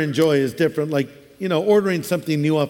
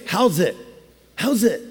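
Hawaiian greeting. Retold or imitated. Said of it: "In Hawaii".

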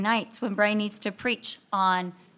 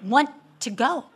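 mock sarcastic jab; 5 dB louder than usual. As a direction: needle him with exaggerated, pointed emphasis. Retold jealous wife snipes at husband.

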